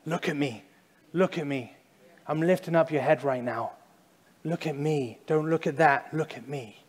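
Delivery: a hint of a soft fatherly God; tender God voice. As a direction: coax someone to lift their chin. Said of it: "But God's saying".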